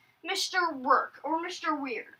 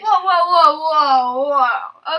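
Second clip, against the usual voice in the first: excited; 10 dB louder, slower than usual. Real, not acted. Stopping the other speaker.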